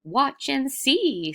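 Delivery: high, slow, gleeful promise. Acted. Traveler promising the crowd a show, gleeful. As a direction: tease them with delight. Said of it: "with glee".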